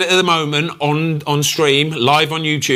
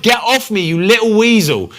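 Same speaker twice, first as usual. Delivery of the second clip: high, louder mock snap at the pest; Messi telling him off; 8 semitones higher, 3 dB louder than usual. Messi snapping at Salt Bae, irritated. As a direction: shoo off an annoying clinger, irritated. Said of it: "He's like".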